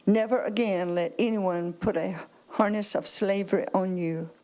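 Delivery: firm, projected Bible reading to a congregation; emphatic scripture reading. Acted. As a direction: read the verses out with weighty emphasis. Reads Scripture aloud to congregation.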